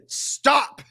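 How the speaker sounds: high, sharp shouted stop; retold yell. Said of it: "he yells at me again".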